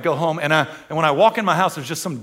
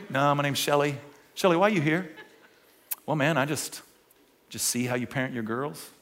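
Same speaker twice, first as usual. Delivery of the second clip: sweet intruder Shelly; 7 semitones lower, 12 dB quieter than usual. Retold or imitated. Voicing intruder Shelly in story.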